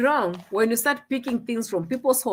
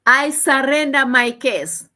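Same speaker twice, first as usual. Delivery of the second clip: louder, slow, each word set apart; dramatic surrender; 4 semitones higher, 6 dB louder, slower than usual. Real, not acted. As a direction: declare it like a grand defeat. Dramatic giving up.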